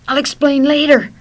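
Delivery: high, very loud frantic cry; full-voiced, panicked get-away shout; urgent shout. A narrator's reading. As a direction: yell it on the run. Friend shouts while fleeing.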